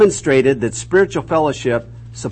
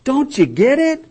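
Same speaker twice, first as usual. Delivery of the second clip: exasperated high-pitched insistence; Jesus; 8 semitones higher than usual. Acted. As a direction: press the point to followers who don't get it, pitched high. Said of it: "He said".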